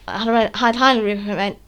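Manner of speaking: stumbling speech with dentures out. Real, not acted. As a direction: talk without your false teeth in. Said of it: "I'll put my teeth back in".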